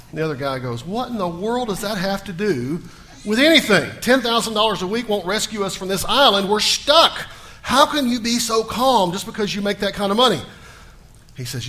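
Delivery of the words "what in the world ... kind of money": raised, exasperated disbelief; can't believe what he just heard; incredulous. Retold or imitated. Stranded man disbelieving his calm friend.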